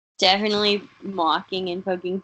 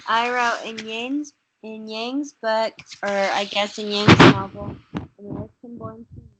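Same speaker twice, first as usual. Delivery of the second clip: sounding muffled on the call; words dulled as if covered. Real, not acted. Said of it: "You muffled again".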